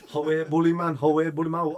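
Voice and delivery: badly faked Geordie accent; Gaza. Cornered teammate pleading, mock Geordie accent. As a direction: protest in a put-on Geordie accent. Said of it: "Shit, Geordie accent, by the way".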